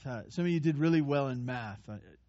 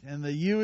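"you" leaned on hard; stress on you. Shown as a demonstration. Preacher explaining the verse, stressing "you". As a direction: hit the word "you". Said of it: "is emphatic there".

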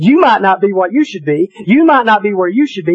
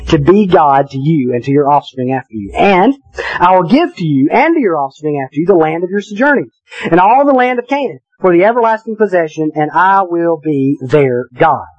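scripture reading. Acted. Pastor reading Genesis to the congregation, solemn reading voice. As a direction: read the passage with weight and care.

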